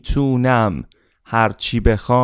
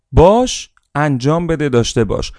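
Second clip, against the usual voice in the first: باش hit high and loud, then falling; loud mantra; 3 semitones higher than usual. Shown as a demonstration. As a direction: launch باش like a rallying cry. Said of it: "ترتیبش هم حفظ کنید".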